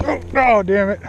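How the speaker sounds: sudden high yelp, then cursing; startled as the fish gets away; frustrated surprise. Real, not acted. Fish strikes and escapes.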